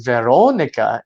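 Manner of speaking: slow, careful "Veronica" with a round "oh"; attempted Portuguese pronunciation. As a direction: try out "Veronica" slowly, rounding the "oh". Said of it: "And I was like".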